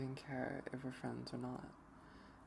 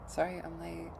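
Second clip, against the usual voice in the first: panting apology; out of breath from running; 4 semitones higher, 4 dB louder than usual. Acted. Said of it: "I'm panting".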